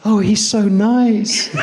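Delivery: very high, slow, laughing gushy voice; smitten Jody. Retold or imitated. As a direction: gush like a woman falling for him. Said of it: "And she's like".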